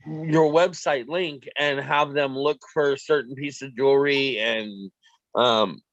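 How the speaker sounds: talking through hiccups; words broken by hiccups. Real, not acted. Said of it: "I have the hiccups really bad".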